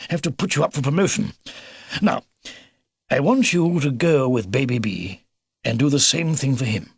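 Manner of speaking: lightly voiced brisk old officer; commend, then hand out the order; old beaver commander. Old beaver praising and briefing the robin, lightly military.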